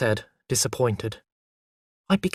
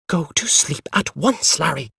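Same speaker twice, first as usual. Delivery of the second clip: sharply; 3 semitones higher than usual. Acted. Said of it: "she said sharply".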